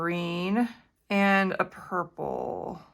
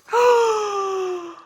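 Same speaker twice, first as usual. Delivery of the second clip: high, loud gasp, close to a cry; tearful gasp; 11 semitones higher, 4 dB louder than usual. Real, not acted. Crafter gasping over her finished stamp. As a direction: gasp with shaky delight.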